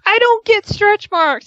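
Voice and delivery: offended denial. Retold or imitated. Wife offended by the oil gift, huffy. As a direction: sound insulted and defensive. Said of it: "and she's like".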